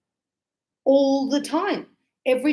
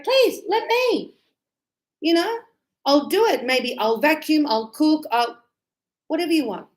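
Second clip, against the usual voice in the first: eager pleading; 4 semitones higher than usual. Retold or imitated. Student eagerly begging teacher to do any chore. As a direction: plead to be allowed to help. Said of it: "it's like".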